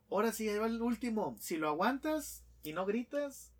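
más agudo, desafío burlón del diablo; lánzale el reto con voz de diablo; diablo desafiante. Acted. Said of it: "Y dice el diablo". (el diablo desafía al americano, más agudo)

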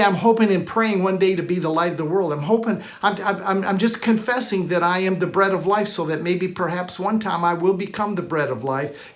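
unsure, hoping and stammering; mock hesitant believer. Preacher mocking a believer who only hopes, unsure. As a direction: imitate a doubter wishing it were true. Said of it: "He didn't say".

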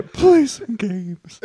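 mock bored drawl. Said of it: "You give up and just say".

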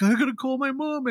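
high-pitched, whiny imitation of crying; mock crying. Movie fan imitating the crying dude, mock tearful. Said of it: "the dude is crying".

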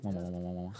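low, quiet repeated wah imitating vibration; vibrating wah-wah sound. Showing friends a rattle, softly imitated vibration. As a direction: imitate something vibrating with soft wahs. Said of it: "they're, like, they're vibrating".

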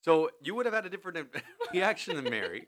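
talking through a laugh. Real, not acted. Teasing Izzy about crying at compliments, laughing. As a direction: laugh while you tease her.

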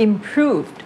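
"improved" in two syllables with a light final D; no extra syllable. Shown as a demonstration. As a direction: model "improved" as im-PROOVD. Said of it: "ทำไมถึงไม่ต้องเป็น verb".

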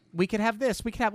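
lightly mocking the Julia character's Italian lilt; a hint of put-on Italian, retold; mock Italian-American. Podcaster mocking Julia's fake Italian, light put-on accent. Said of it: "comes in with".

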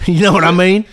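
lightly voiced folksy conservative rant; redneck conservative. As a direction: grumble like a cranky rural right-winger. Plays redneck conservative character.

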